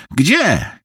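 rising concern in a friend's voice; worried friend. Acted. Harvey senses trouble on the phone, worried. Harvey asks where to meet.

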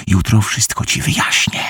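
hushed whisper. Acted. Bruce whispers to Harvey, fearing the noise. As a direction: whisper so no one outside hears. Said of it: "szepnął".

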